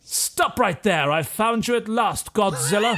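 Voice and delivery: theatrical confronting voice; Napoleon. Acted. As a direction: declare it grandly to an old foe. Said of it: "He says".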